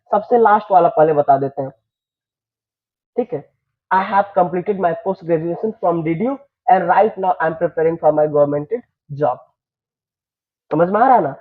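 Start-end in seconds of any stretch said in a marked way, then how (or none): 3.9-9.4 each word laid out slowly for students; teacher models an interview answer for students, slowly and clearly; slow model sentence. Shown as a demonstration. Dictating slowly to the class. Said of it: "teacher models interview answer".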